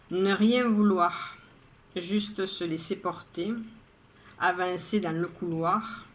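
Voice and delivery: measured poetry reading, line by line; poem recitation. Acted. Poet reading her daily poem to viewers, measured recitation. Reads the poem a third time.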